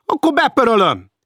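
high, loud outraged shout; shouted threat. Acted. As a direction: yell the threat at him. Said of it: "kiáltotta Hecker".

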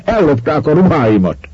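high, indignant shout; shouting back. A narrator's reading. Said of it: "kiabált ki Schwarz úr". (felháborodott kiáltás)

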